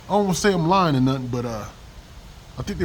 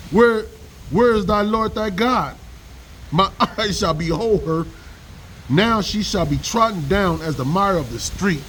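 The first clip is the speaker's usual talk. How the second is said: steady Bible recitation; scripture reading. Acted. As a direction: read the verse as a warning. Reading Micah aloud.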